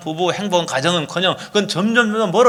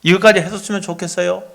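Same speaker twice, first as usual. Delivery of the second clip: gentle request. Acted. Spouse asking for help with hair on the floor, gentle request. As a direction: ask kindly, without blame. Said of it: "이렇게 말하는 대신에 어떻게 말했는가 하면은".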